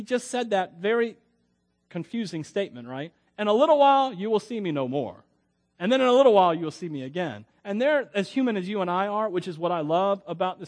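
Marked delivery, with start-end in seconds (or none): 3.4-7.4 declaimed riddle; scripture quote. Acted. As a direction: proclaim each half, punching the first words. Quotes the confusing verse.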